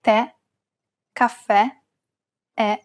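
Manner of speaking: Tè, caffè, è with a stressed open final E. Shown as a demonstration. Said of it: "pronounce it as an open E".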